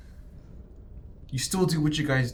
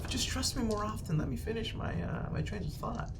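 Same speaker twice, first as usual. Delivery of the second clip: higher, softer, fading exasperation; higher-pitched, trailing irritation; exasperated; 8 semitones higher, 6 dB quieter than usual. Acted. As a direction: let me finish, tired and irritated. Boss annoyed at interruption.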